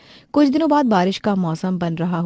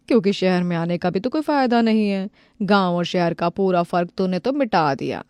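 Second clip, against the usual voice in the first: mocking. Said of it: "लोग पायल का मजाक बनाने लगते हैं".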